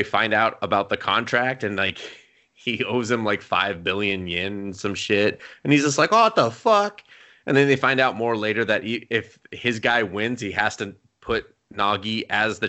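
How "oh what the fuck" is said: higher mock-outraged outburst; acted exasperated shock; indignant disbelief. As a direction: retell it as a stunned, indignant reaction. Retells character's outrage at contract.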